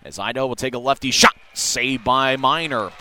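quick live hockey commentary; rapid hockey play-by-play. Real, not acted. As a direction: call the play as it happens.

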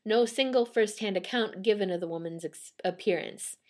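measured read from a written account; storytelling read-aloud. Real, not acted. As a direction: read it out like a ghost-story report.

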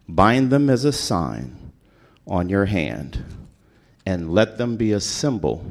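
measured, solemn reading of scripture. Acted. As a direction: read the verses aloud with weight. Reads Deuteronomy aloud.

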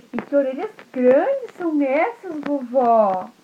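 put-on high, curious child voice; wondering little girl. Red Riding Hood questioning grandma's big ears, high. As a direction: ask about the ears with wonder. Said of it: "a Chapeuzinho falou".

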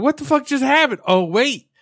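put-on hammy Jewish accent, high and loud at the start. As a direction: play it as a Jewish-accented drunk realizing the truth. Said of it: "continue doing the Jewish accent".

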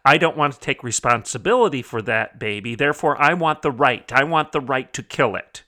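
lightly mocking, pouty rant; hammed-up entitled complaint with a slight pout; mock whining. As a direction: imitate a petulant demand, a touch whiny. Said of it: "whine and pout and strut around and say".

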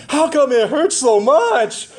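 put-on high, slow little-girl voice; toddler voice. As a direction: imitate a whiny toddler. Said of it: "she was saying".

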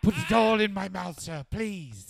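pleading, high and loud; whiny high servant begging sir. Pretend.

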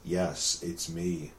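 low, hushed villain voice; deep, dramatic bad-dub villain; overacted anime dub. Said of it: "picks up the phone and goes".

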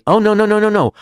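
high, quick string of denials; protesting. Acted. Rabbi denies making up stories, protesting. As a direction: wave off the accusation, pitched high.

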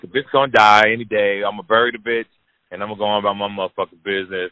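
brash, careless inner thoughts, rushing the end; blunt dismissive monologue, fast at the close; callous inner voice. Retold or imitated. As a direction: shrug her off like she's nothing. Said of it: "I'm like".

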